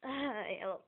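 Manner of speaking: sudden yelp of pain, foot hurt. Real, not acted. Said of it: "Ow, my foot".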